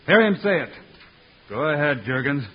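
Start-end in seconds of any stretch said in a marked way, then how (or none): 0.1-0.6 formal proclamation. Acted. Hero addresses the tribe.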